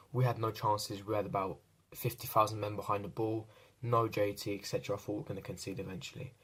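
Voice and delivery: ordinary talk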